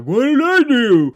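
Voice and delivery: high, loud, baffled mock cry; baffled Torres. Mocking a cop left standing there, shrieked and baffled. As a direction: play the clueless cop, squeaking in confusion. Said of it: "left there with his dick in his hand like".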